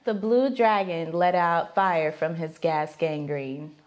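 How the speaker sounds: slow, low-pitched recital; deadpan challenge read. Real, not acted. Giving the partner a phrase to guess, deadpan.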